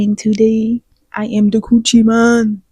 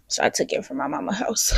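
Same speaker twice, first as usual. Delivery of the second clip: whisper; 3 semitones higher, 10 dB quieter than usual. Real, not acted. Confessing she took the light.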